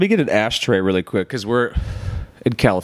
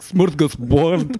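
slow, higher, put-on foreign accent; mock foreign accent; 5 semitones higher, much slower than usual. Teasing her word as a kid's best foreign accent, mock accent. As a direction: drag it out in a badly faked foreign accent. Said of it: "but with an autistic twang".

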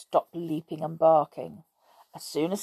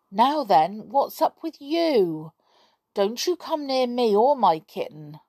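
put-on boy voice; 6 semitones higher, 3 dB louder than usual. Boy voiced speaking to dog.

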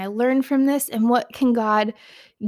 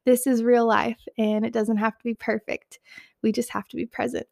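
shaky voice. Real, not acted. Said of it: "Sorry for my tears and shaky voice and out of breathness".

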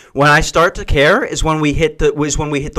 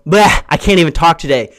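mock ditzy excuse; 5 dB louder than usual. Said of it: "don't be in the middle of it and go".

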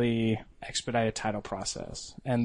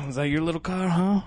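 raised raspy smoker's voice; smoker's rasp; 6 semitones higher than usual. Retold or imitated. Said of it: "this guy's just got this big smoker's voice".

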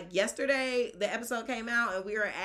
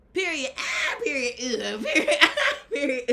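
sassy zoomer mic drop; ironic zoomer; 5 semitones higher, 7 dB louder than usual. Pretend. Ironic zoomer slang riff.

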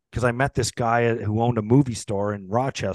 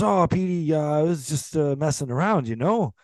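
higher-pitched, hedging backpedal; imitated sheepish excuse; 6 semitones higher than usual. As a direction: mimic someone weaselling out of trouble. Retold backpedalling when confronted by teammate.

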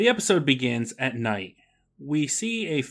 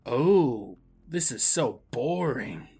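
bored inner voice; much slower than usual. Retold or imitated. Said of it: "a grown man's inner voice says".

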